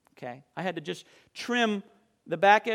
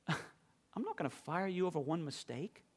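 much softer, gentle and kind; reassuring boss; 14 dB quieter than usual. Retold or imitated. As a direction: soothe the upset young worker. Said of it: "And he said".

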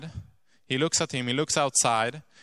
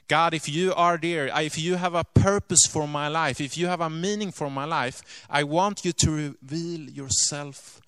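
higher, louder pleading prayer; desperate cry to God; 4 semitones higher, 3 dB louder than usual. Retold or imitated. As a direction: cry out to God as a last hope. Lady's desperate prayer retold.

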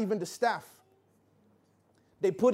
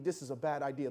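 much softer, lower inner worry; anxious thought; 8 semitones lower, 9 dB quieter than usual. Retold or imitated. Parents at the recital thinking to themselves, softly worried. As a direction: mutter it like a nervous private thought.

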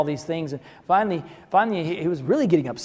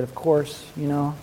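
quiet, lower musing; reflective; 3 semitones lower, 6 dB quieter than usual. Retold or imitated. The father admits doubt about his daughter, quiet and musing. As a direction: mull it over half to yourself. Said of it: "in a reflective moment".

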